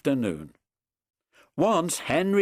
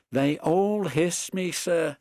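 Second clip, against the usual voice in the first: higher, slower, hurt and plaintive; little engine telling his hurt; sad Edward; 7 semitones higher, slower than usual. A narrator's reading. Edward sadly telling the Fat Controller he is bullied, plaintive. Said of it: "answered Edward sadly".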